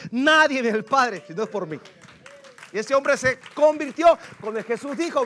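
loud, emphatic pulpit delivery; full-force preaching. Acted. Preacher declaring the power of the word, full-force preaching. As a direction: proclaim it to the whole congregation.

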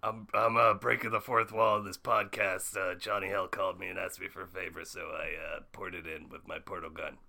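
lightly voiced offhand cartoon scientist; a hint of a jaded, rambling inventor; Rick Sanchez. Plays Rick Sanchez as guest.

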